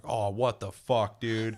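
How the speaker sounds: slow, drawn-out disbelief; lightly voiced stunned victim; mock outrage. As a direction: stretch out the shock of being betrayed. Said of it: "The guy's like".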